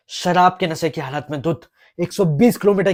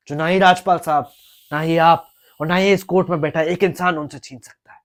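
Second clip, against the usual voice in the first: forceful declaration; 2 semitones higher, 6 dB louder than usual. Acted. Lawyer builds a courtroom argument.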